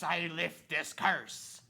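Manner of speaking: slow, growled pirate voice. Shown as a demonstration. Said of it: "In a pirate voice".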